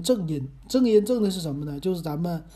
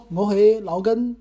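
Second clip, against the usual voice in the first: slow, louder attempt at a Cantonese name; 2 semitones higher, 5 dB louder than usual. Shown as a demonstration. Host introducing himself in a new opening, Cantonese. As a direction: feel out the Cantonese slowly, unsure of the name. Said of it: "粤语里边儿怎么说".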